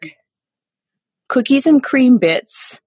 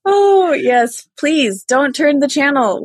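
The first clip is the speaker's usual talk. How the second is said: TV host voice; 6 semitones higher, slower than usual. Pretend. Mock TV host after elf bit.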